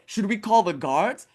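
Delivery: high, mildly alarmed question; taken aback. Retold or imitated. Mother startled by demons, high and taken aback. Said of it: "Parvati's mother is taken aback".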